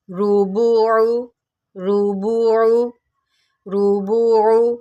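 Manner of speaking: रूबू ending on an ayn from mid-throat; throaty ayn ending. Shown as a demonstration. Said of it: "ये भी हलक के दरमियान से निकाली जाएगी".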